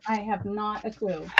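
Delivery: soft, slow mumbled repeat; quiet. Acted. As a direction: drop it to a slow, soft murmur. Repeats her line softly.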